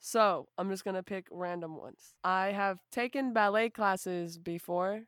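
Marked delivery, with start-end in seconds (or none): 2.2-5.0 flat, slow, even reading; deadpan poker-face delivery; monotone. Real, not acted. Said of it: "Why do you say that so monotone?".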